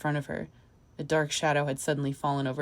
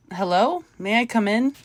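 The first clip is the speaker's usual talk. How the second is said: high, louder call; raised voice into an empty room; 6 semitones higher, 7 dB louder than usual. A narrator's reading. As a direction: call out to find someone.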